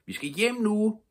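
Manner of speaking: high, loud call. A narrator's reading. Pippi calling her monkey home, high and loud. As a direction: call him home from far off.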